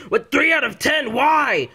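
high, loud indignant question; offended disbelief. Acted. Offended by a low rating.

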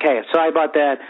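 low, easygoing pretend apology; happy drunk. Drunk fan shrugging off a complaint about smoking, easygoing. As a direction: brush it off like an amiable drunk. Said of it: "I'm a happy drunk".

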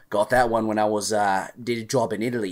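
lightly attempted Jason Statham accent; Jason Statham's accent. Retelling a movie line to podcast co-hosts, imitating Statham's accent. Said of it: "that was a great accent".

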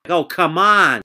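blurted out loud and high. Acted. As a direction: burst out in disbelief. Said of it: "Sally blurted back".

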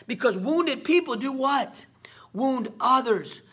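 slow, breathless whisper. Acted. Preacher leans in to the audience, whispering. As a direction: hush it down and whisper the point. Preacher builds a quiet moment.

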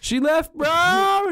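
squeaky mock dude-bro; high bro voice. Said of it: "he's like".

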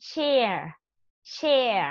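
"chair" with the tongue rolled up on the final R; curled-tongue R. Shown as a demonstration. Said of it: "เราต้องม้วนลิ้นขึ้นมานะจ๊ะ". (ออกเสียง "chair" ม้วนลิ้นขึ้นที่ตัว R)

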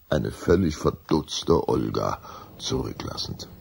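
ordinary talk

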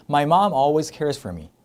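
very slow, each word drawn out; slow teaching model. Shown as a demonstration. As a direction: spell it out slowly for learners. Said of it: "이렇게 되는 거죠". (천천히 또박또박)

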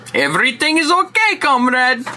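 a hint of a put-on Russian official; mock comrade voice. Sarcastic mock foreign reassurance.

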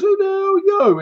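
high-pitched hammed-up demand; mock challenge. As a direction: act out a startled boyfriend at the door. Acting out boyfriend answering the door.

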